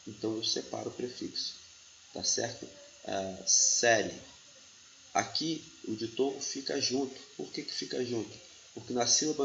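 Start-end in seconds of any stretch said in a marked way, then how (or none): 3.0-4.1 "série" drawn out slowly, its syllables set apart; word split slowly. Shown as a demonstration. Teacher slowly splits série into syllables for students. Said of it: "a sílaba anterior vai ficar assim".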